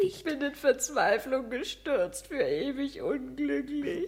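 despairing wail to her friend; despairing lament. Acted. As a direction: mourn her lost hope. Wife in despair.

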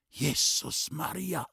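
slow, drawn-out cry of shock; finding the old man bleeding; a stunned, appalled outcry; shocked exclamation. A narrator's reading. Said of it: "Mit diesem Ausruf".

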